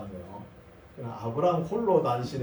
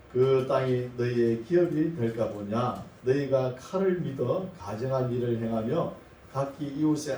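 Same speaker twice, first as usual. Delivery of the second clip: measured, solemn Bible recitation; scripture reading. Acted. Preacher reads the Lord's rebuke of Israel, measured scripture reading. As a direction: read it out steadily, phrase by phrase.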